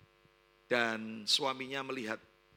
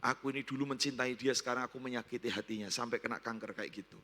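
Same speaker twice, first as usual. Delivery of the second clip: low, subdued self-reproach; remorseful pity; 4 semitones lower, 5 dB quieter than usual. Retold or imitated. Husband pities sick wife and blames himself, low remorseful voice. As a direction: confess it softly, sinking at the end. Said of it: "dari rasa kasihan itu".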